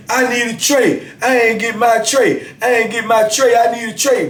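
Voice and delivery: high, nagging demand for a tray; whiny demand. Retold or imitated. Inmate demanding his tray from the guard, high nagging. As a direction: nag like a man denied his food.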